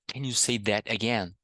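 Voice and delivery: "that again" with a clear t; careful question, "that" ending in a real t; T pronounced. Shown as a demonstration. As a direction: keep the T audible in "that again". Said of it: "Posso falar".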